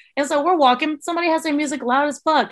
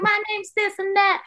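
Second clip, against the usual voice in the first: mock squeaky girl voice, higher and slow; squeaky little girl; 9 semitones higher, slower than usual. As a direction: imitate a timid squeaky trainee. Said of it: "real squeaky voice having little girl".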